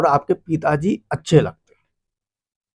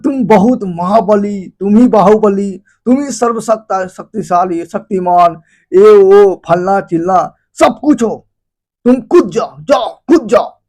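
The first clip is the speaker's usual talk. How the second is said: egging on. Retold or imitated. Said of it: "तो दोस्त बोलेगा".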